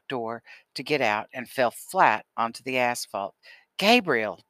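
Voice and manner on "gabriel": a loud alarmed call; father shouts as his boy falls; yelled name. A narrator's reading. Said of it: "Daddy yelled".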